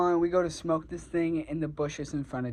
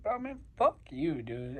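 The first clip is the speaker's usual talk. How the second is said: retold anger. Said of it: "like, anger".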